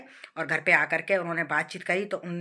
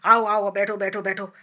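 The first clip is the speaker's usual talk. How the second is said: a loud, curt welcome through annoyance; mother-in-law grudgingly greets the bride's parents, loud and irritated; grumbling mock welcome; 6 dB louder than usual. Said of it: "भनभनाती आई अंदर".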